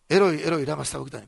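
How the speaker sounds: loud, anguished cry of forsakenness. Retold or imitated. Jesus on the cross calling loudly to God, a loud anguished cry. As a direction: call out the old words loudly, then let it fall. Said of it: "イエス様が大声で言います".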